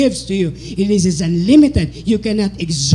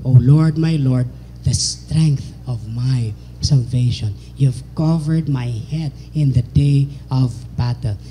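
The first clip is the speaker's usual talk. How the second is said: many voices in unison; 5 semitones lower than usual. Acted.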